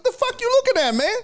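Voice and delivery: very high, squawked retold challenge; hostile challenge. Passenger confronts driver at van door, incensed challenge. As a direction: fire it at the starer, incensed.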